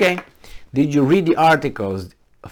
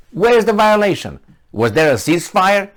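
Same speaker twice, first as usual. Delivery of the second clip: indignant; 8 semitones higher, 6 dB louder than usual. Real, not acted. Indignant rant at Ukrainians.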